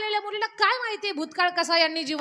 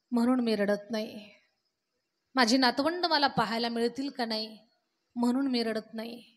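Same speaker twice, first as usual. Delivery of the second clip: put-on old father grieving; 5 semitones lower than usual. Old father tells his son why he weeps, low and sorrowful. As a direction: let the old man's grief sink the voice down.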